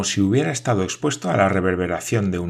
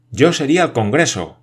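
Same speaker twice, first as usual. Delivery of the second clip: higher, louder elated shout; 5 semitones higher, 6 dB louder than usual. A narrator's reading. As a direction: proclaim it at the top of his voice. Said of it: "gritó Michel". (grito eufórico y agudo)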